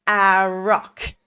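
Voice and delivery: put-on small child's answer; lightly voiced little kid.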